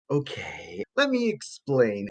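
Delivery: hushed okay, rising into a soft, slow explanation; softly gather yourself before explaining; composing himself. Acted. Lab assistant striking a yoga pose before explaining, hushed and composed.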